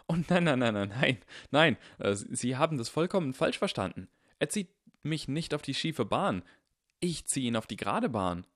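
put-on earnest boy insisting he's right; voiced young Harry.

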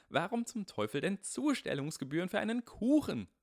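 high, loud indignant complaining; outraged rant. Acted. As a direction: splutter with outrage at the fees. Harry ranting over pie fees.

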